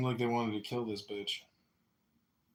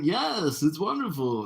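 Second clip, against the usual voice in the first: delighted reply; 6 semitones higher, 4 dB louder, slower than usual. Retold or imitated. Acting out the bar guest's delighted reply.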